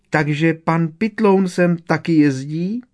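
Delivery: high, loud, drawn-out elf squeal; squeaked. A narrator's reading. Winky hears that Pitloun comes here too, squeaking. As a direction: squeak the question, rising high. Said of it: "vypískla".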